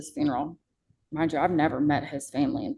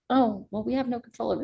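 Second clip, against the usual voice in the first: higher-pitched mimicked excuse; lightly mocking, raised pitch; 6 semitones higher, faster than usual. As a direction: parrot a helpless excuse, mockingly.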